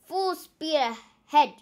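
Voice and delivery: loud, slow captain's command; slow booming order; pirate order. Acted. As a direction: bark it across the deck. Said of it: "cried Captain Pepper".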